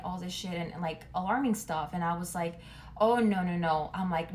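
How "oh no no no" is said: alarmed no. Retold or imitated. Panicked reply to alarming texts.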